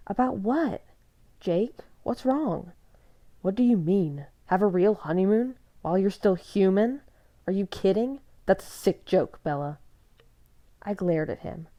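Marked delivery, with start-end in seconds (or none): 0.1-2.7 higher, louder, slowing worry; alarmed question. A narrator's reading. Bella asks Jacob what's wrong, alarmed. 3.4-9.8 loud, incredulous shouting; outraged disbelief. A narrator's reading. Jacob confronts Bella about honeymoon, outraged.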